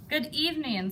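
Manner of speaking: low, airy monster greeting; low breathy voice. Acted. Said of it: "said a low, breathy voice".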